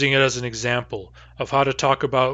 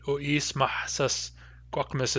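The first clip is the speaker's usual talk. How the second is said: slow demo pronunciation; 6 dB quieter than usual. Shown as a demonstration. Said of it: "nothing wrong with the way you said it".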